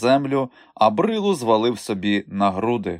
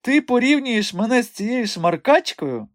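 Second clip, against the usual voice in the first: high, indignant and contemptuous; offended scorn; 14 semitones higher than usual. Acted. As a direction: sneer at the very comparison. Madame insulted by comparison.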